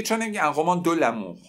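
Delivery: questioning student. Pretend. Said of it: "یکی میگه".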